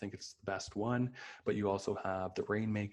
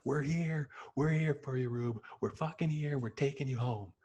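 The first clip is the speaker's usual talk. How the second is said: mock shout; 6 semitones higher than usual. Friends screaming from the window to Rube, mock shout. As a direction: call out across the street to him.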